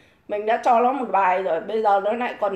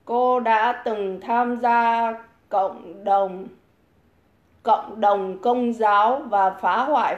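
mock reading; much slower than usual. Reads the comment a second time. (đọc bình luận chậm rãi, giọng chế giễu)

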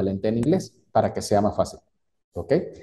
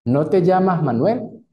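slow, higher rising question; questioning tune; 5 semitones higher, 3 dB louder than usual. Shown as a demonstration. Teacher models a question tag, slow rising. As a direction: ask it as a checking question. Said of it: "escuchen este ejemplo en español".

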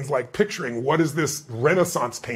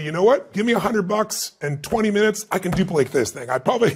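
teasing; 3 semitones higher, 4 dB louder than usual. Retold or imitated. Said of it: "teasingly and facetiously".

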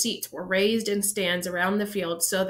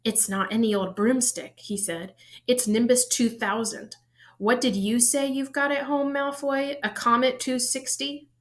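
boastful; 4 semitones higher than usual. Acted. Ron boasting to Malfoy.

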